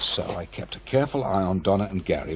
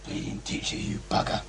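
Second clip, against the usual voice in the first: Peter's voice; 5 dB quieter than usual. Pretend. Hidden boy voicing Peter.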